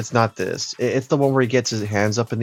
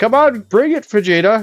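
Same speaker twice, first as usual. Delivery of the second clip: shrill, high, loud villain voice; 11 semitones higher, 7 dB louder than usual. Retelling the fight against Cell as Cell taunts: imitating Cell. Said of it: "and Cell's like".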